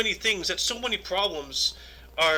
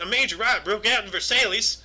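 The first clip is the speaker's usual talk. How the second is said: mock southern accent; 3 semitones higher than usual. Shown as a demonstration. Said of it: "speaking in my southern accent".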